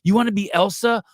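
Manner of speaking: high, loud, slow gushing over the Elsa idea; mock overjoyed parent praising the son's costume wish. Parent at Halloween store gushes to son, mock overjoyed. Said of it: "you go".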